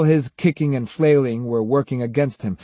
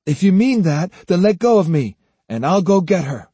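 put-on higher, louder boy's voice, bargaining; insistent young boy; 5 semitones higher, 5 dB louder than usual. A narrator's reading. Captive Jotaro bargains with Granny for release, insistent. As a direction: press her as a plucky child.

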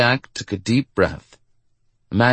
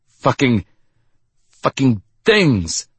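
higher, drawn-out curse of exasperation; frustrated growl; 4 semitones higher, slower than usual. A narrator's reading. Curly smacking a flashlight that won't work, growling in frustration. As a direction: curse slowly, pitch raised, fed up with the thing. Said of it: "Curly growled".

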